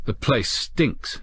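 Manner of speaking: slow, uneasy remark; a slow, wary line, a touch uneasy. Acted. Captain uneasy after removing his helmet, slow wary murmur. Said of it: "he said uneasily".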